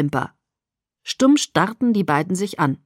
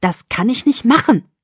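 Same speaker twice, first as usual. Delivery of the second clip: frosty; 4 semitones higher, 6 dB louder than usual. A narrator's reading. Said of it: "mit frostiger Stimme".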